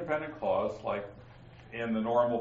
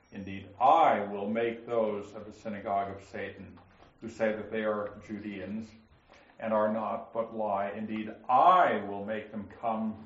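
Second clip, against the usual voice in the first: each "I" and its verb given firm stress; emphasis on I and its verb; 4 semitones lower than usual. Shown as a demonstration. Teacher reading Revelation to the class, leaning on each "I". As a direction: hit every "I" and the verb after it. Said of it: "I'll emphasize the word I and the verb that follows".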